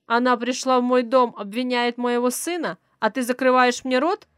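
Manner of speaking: very loud, raging at his wife; a husband exploding at being silenced; furious shout. Acted. Rich father shouts at his wife for shushing him.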